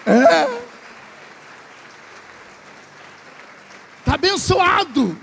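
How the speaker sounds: ringing pulpit cry of praise; full-force preaching. Real, not acted. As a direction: whip the church into praise.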